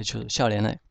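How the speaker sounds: 笑脸诶 run together at natural speed; natural quick reading. Shown as a demonstration. Teacher giving the everyday fast form of 笑脸诶 to students. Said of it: "一般读得比较快".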